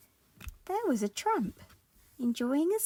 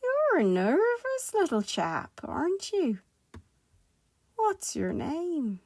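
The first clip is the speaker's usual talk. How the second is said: higher, lilting kindly tramp; gentle; 8 semitones higher than usual. Acted. Tramp to nervous Mister Jelly, gentle coaxing. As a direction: coax a frightened little creature kindly. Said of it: "said the tramp gently".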